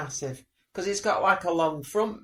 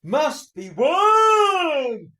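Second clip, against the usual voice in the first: slow, much higher and louder presenter call; mock a TV host's big finish, dragged out; hammed-up slow announcer cry, high and loud; mocking presenter shout; 7 semitones higher, 7 dB louder, much slower than usual. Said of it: "Like that".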